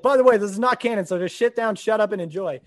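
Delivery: loud mock announcer; lightly hammed-up text reader; opening crawl readout. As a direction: announce it bluntly, starting high and easing off. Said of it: "reading out the opening text".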